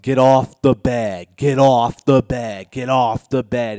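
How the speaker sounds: panicked loud order to get off the bed; urgent yell. Retold or imitated. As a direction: bark it out in panic. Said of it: "so I yelled".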